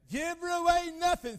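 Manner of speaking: high, loud, indignant protest; indignant outburst. Retold or imitated. Preacher retelling Bud's protest at the altar, high and loud. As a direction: blurt it out, outraged at the cost. Father balks at giving bride away.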